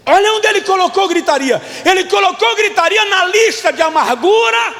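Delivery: high, loud-edged fiery preaching; pregação inflamada. Real, not acted. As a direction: drive the list home forcefully. Preaches at full force. (pregação inflamada, em tom agudo)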